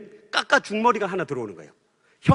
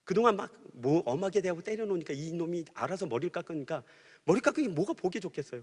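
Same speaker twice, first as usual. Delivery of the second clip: ordinary delivery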